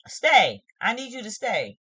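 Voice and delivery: soft plea to stay; pleading softly. Shown as a demonstration. Vlogger acting the other half, soft pleading. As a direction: beg them to stay, gently.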